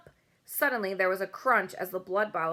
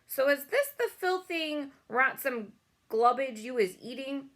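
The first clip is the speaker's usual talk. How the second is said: booming giant; 6 semitones higher than usual. A narrator's reading. Bloodbottler sneering at the BFG's snozzcumber, booming. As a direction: boom it out like a brutish giant. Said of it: "boomed the blood bottler".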